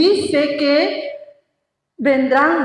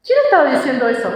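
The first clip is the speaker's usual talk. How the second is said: quick repeat; much faster than usual. Shown as a demonstration.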